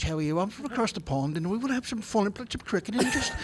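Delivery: put-on British accent; English accent. Shown as a demonstration. Guest showing off his English accent for the visiting actor, put-on British. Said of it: "Now do your English".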